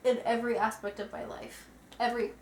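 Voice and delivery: talking through a burp; words pushed out on a burp. Real, not acted. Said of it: "I'm sorry that I keep talking through burps".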